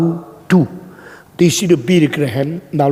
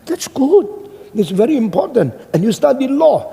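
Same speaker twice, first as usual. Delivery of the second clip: higher-pitched, impressed praise; using psychology; 6 semitones higher than usual. Retold or imitated. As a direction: flatter the student to win them over. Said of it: "saya pakai psikologi".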